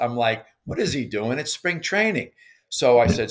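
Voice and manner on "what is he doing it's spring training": exasperated disbelief, pitch climbing at the end; retold annoyance. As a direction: re-enact being mildly pissed off. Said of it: "So now I'm pissed".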